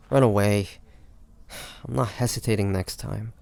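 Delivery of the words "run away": taunting. Acted. Taunting fleeing guards.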